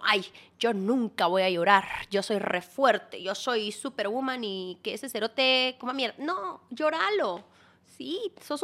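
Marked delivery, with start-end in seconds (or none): 0.0-6.1 mock tough woman. To a heartbroken listener, mock tough bravado. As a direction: puff up like a fake superwoman. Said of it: "no es como".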